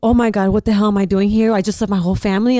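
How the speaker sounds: retold panic attack at the billboard, fast and loud; panicking. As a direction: blurt it out in sudden panic. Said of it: "I started panicking".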